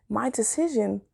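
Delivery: whispered, unvoiced. Real, not acted. Telling viewers about the choice, whispered. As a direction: drop to a whisper on the words.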